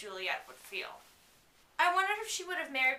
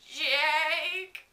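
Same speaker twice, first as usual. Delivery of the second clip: croaking; 4 semitones higher, 5 dB louder than usual. Acted. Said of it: "I croaked".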